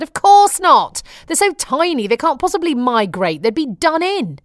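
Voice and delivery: imitating husband's know-it-all scoff. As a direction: lord it over her, dismissive. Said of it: "He scoffed at me".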